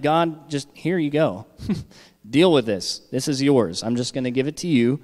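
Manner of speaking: lightly voiced carefree prayer; casual handing over. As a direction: toss it to God without a care. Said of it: "just being like".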